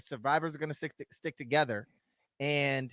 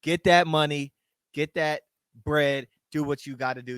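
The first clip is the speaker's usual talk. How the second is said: cheering; 2 semitones higher, 8 dB louder than usual. Real, not acted. Cheering on Dom.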